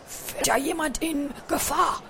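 high lisping hamster voice; Bertram, lisping. A narrator's reading. Hamster wondering if someone is in danger, lisping. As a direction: lisp it with eager concern. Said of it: "lispelte Bertram".

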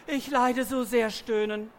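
a touch of theatrical suffering; hammed-up groaning. A narrator's reading. Mare playing up her suffering for the farmer, mock groaning. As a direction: moan it like a drama queen. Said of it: "Die Gräfin stöhnte ihr Bestes".

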